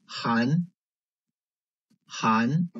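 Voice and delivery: 寒 in second tone, rising; tone drill. Shown as a demonstration. Teacher reading for students to circle, 寒 rising. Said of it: "focus on the tones".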